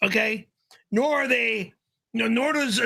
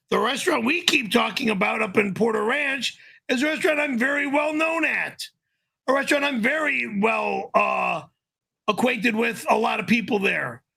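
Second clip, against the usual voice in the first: ranting. Real, not acted. Ranting about being barred.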